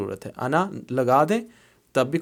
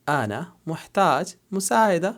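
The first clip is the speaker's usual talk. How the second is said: slower, higher, each word laid out; slow careful repeat; 4 semitones higher than usual. Shown as a demonstration. Teacher repeating the man's phrase for students, slow and clear. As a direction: repeat it slowly so the student catches مساعدة. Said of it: "مرد اس کو کیسے بولیں گے؟".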